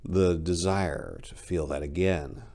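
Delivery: measured storyteller reading a dark tale; story narration. A narrator's reading. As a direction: read it like a campfire horror story, unhurried. Reads her short story aloud.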